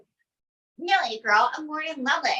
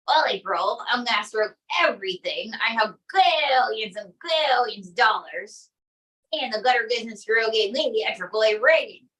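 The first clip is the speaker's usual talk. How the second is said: Trump impression; 3 semitones lower than usual. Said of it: "Donald J Trump".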